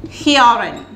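Hioren with ö; German hören. Shown as a demonstration. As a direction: round the o in Hioren. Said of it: "we can say Hioren".

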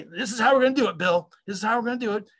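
retold heated insistence; arguing. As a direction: push back firmly, acting out a quarrel. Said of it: "they were having an argument".

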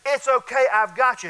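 a big, bold promise of rescue; preached reassurance. Acted. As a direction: call it out loud and warm, like a rescuer. Jesus the lifeguard, preached.

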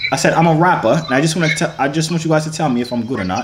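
mild fake British accent; put-on British accent. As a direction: pitch yourself as a UK rapper in a fake British accent. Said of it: "I can tell by your accent".

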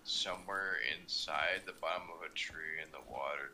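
primitive man. Pretend. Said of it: "gone full, like, primitive man".

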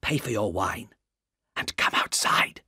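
hushed, scared whisper; low frightened voice. Acted. A spy urging his sister out of the shop, in a frightened whisper. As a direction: whisper it so no one overhears. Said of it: "in a low, frightened voice".

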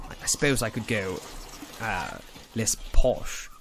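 hesitant English accent. Shown as a demonstration. Streamer weighing up which accent to do, tentative English accent. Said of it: "trying my best to do an English accent".

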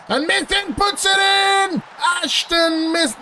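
real goal-celebration shout; excited shout. Real, not acted. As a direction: scream it like the winner just went in. Goal then disallowed excitement.

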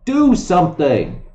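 high, loud, slow yell; exasperated shout. Real, not acted. Streamer shouts at Trump to act, high and loud. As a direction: shout it out of frustration.

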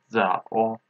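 "Za o" held back, then swelling; third tone demo. Shown as a demonstration. Teacher shows how to make the tone, dipping-rising "Za o". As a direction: dip on "Za", lift through "o". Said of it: "You obstruct sound. Later you will raise the volume".

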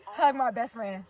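low, soft and intimate; tender imitation. Man hugging then kissing fiance, softly imitated. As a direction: voice a fond thought, hushed and low. Voices the man's tender thought.

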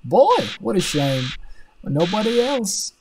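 sinister sing-song taunt turning dark; taunting villain. Acted.

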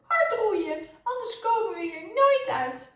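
high, loud urging; shouted, high-pitched warning; urgent shout. A narrator's reading. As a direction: drive your crewmate on, shouting high. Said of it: "riep Lodewijk".

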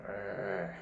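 monster growl. A narrator's reading. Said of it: "They go".

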